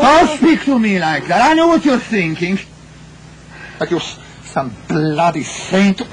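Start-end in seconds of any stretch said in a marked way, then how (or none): 0.0-2.6 angry. Acted. Marital quarrel, he bristles.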